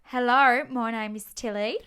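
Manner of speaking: hammy Australian greeting; Australian accent. Pretend. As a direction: launch the intro in mock Australian. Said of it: "let me just do it in Australian".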